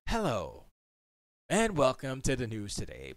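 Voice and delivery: lightly imitated news anchor melody; newscaster intonation. Shown as a demonstration. Streamer showing how broadcasting school teaches, mock newscaster delivery. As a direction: open a bulletin with a practised broadcaster's lilt. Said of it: "There's a certain intonation, a certain melody to their voice".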